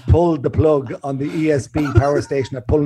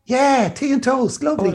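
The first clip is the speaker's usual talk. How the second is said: dreamy drugged answer; 11 semitones higher than usual. Retold or imitated. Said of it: "And I was just".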